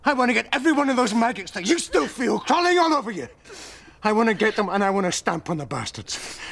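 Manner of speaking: high, intense outburst; fierce, high-pitched vow; impassioned fury. Acted. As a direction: insist at the top of the range. Vowing revenge for victim.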